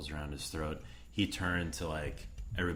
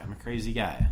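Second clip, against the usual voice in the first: mock crazy guy; 5 semitones higher, 5 dB louder than usual. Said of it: "crazy Bill Pullman scene".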